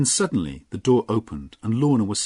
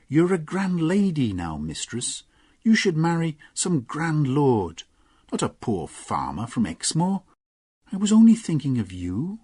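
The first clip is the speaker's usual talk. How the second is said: Gwenny, defensive; 8 semitones higher, 3 dB louder than usual. Acted. Gwenny defending herself to Lorna, higher earnest plea. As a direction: justify herself to her mistress.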